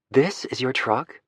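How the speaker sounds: "your" leaned on, slow, sounding doubtful; slow question stressing "your"; odd stress. Acted. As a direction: stretch out "This is your truck?" with weight on "your". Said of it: "I think I emphasized the wrong word".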